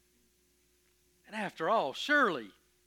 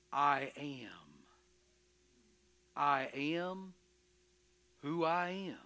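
hushed divine answer; slower than usual. Acted. God reveals his name.

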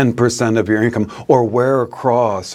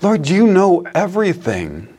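higher, pleading, hurt disciple's voice; bold, hurt; 6 semitones higher than usual. Retold or imitated. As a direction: protest boldly that he's wounded. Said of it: "he says boldly".

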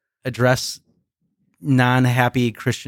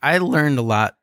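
voice crack; 4 semitones higher than usual. Real, not acted. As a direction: voice cracking on the words. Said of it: "Did y'all hear the speaker's voice crack?".

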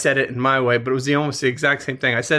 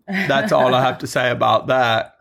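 a light hint of Forrest Gump; Forrest Gump impression. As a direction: quote the line lightly in Gump's manner. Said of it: "In the words of Forrest Gump".

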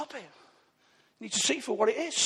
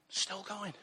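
much softer, falling away on going; quiet echo; 3 semitones lower, 14 dB quieter than usual. Real, not acted. To the congregation, a soft reflective echo. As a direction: let it drop to a near hush, savouring it.

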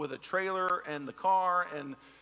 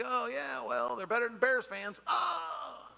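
a hint of a mock fan comeback; rival fan retort; 7 semitones higher, slower than usual. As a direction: tease back, higher pitched. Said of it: "And I'm like".

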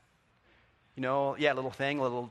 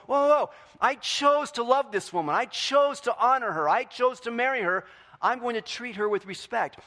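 higher, louder "whoa" of a husband checking himself; husband catching himself; 10 semitones higher, 8 dB louder than usual. Retold or imitated. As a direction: pull yourself up short and declare it. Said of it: "we forget to stop and go".

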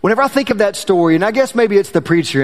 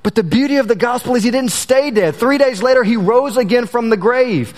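earnest sermon delivery, slowing on key lines; preaching. Acted. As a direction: preach it with rising conviction. Preaches the gospel after story.

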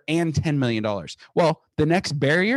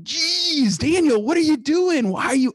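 high, put-on voice of an exasperated father-in-law; mocking father-in-law; 14 semitones higher than usual. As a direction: mimic the father-in-law scolding in a much higher voice. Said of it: "my father-in-law is like".

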